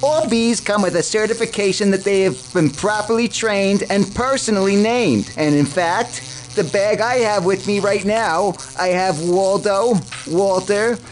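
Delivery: lightly voiced, upbeat ad pitch; ad spokesman. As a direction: sell it like a cheesy TV ad. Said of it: "a word from our sponsors".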